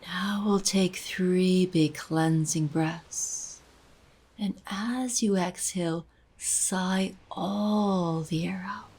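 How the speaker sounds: unhurried guided meditation voice, long pauses between phrases. Acted. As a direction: gently guide the listener into breathing and release.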